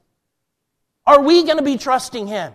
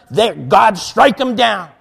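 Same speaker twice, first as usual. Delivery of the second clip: forceful, louder mock condemnation; angry judgment; 2 semitones lower, 4 dB louder, slower than usual. Preacher showing the wrong position of anger, forceful mock judgment. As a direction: briefly mimic an angry believer demanding punishment. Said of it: "Not a position of anger".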